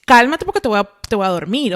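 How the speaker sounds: a hammed-up harsh order to calm down; stern order. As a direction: snap it like an impatient doctor. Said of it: "en vez de decirte".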